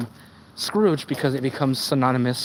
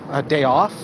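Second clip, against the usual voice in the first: modest worker request. Acted. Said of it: "we ask for something so small".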